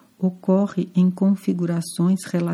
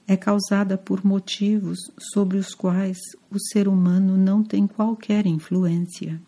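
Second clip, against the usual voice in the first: ordinary talk, nothing marked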